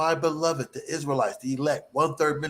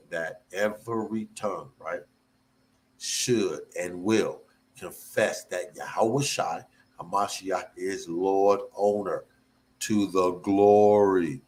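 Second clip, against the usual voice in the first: slower reading; 6 semitones lower than usual. Shown as a demonstration. Preacher rereads the verse to the congregation, slow and deliberate. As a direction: reread the verse slowly and lower. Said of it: "let me read that again slowly".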